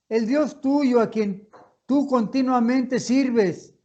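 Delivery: a worried king calling into the pit, voice heavy with grief; sad voice. Acted. King calling to Daniel at the lions' den, sad and pleading. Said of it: "con voz triste".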